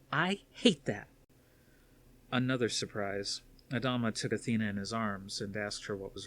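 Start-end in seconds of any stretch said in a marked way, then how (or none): 0.1-1.1 put-on high young woman's voice, anxious and pleading; a daughter confessing her fears to her father; worried daughter. Athena cuts her father off.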